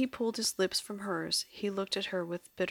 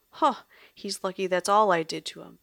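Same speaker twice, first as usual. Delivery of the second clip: louder seething retort; 7 dB louder than usual. Acted. Lily seethes about her drugged boyfriend, louder. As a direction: spit it out with contempt. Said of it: "Lily seethed".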